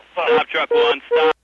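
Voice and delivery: normal talking voice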